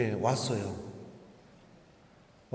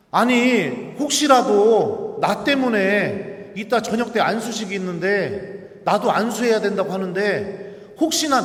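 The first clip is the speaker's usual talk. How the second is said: urgent pleading; 5 semitones higher, 5 dB louder than usual. Retold or imitated. Pleading explanation to a friend.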